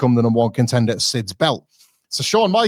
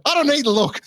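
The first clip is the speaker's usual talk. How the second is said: high, sneering brush-off; imitating a cocky Shawn; mock dismissive; 13 semitones higher than usual. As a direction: wave him off in a much higher mocking voice. Retold Shawn brushing Vince off.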